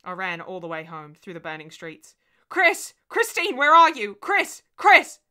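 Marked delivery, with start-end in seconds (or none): 2.5-5.2 much higher, much louder frantic screams; screaming. A narrator's reading. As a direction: scream her name through the empty house. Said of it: "my own voice of the past screaming".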